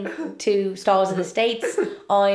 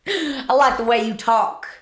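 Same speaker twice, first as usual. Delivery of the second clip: mock imitation; 5 dB louder than usual. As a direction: parrot her voice while laughing. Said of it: "I can mock you while you speak to me".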